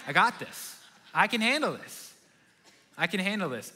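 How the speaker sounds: mildly cocky new dad; smug baby whisperer. Retold or imitated. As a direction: crow about it with a laugh. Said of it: "I was like".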